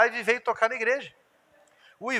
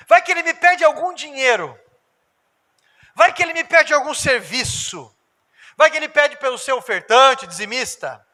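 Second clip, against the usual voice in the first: mock worried believer; 4 semitones higher, 5 dB louder than usual. Pastor voices worried believer.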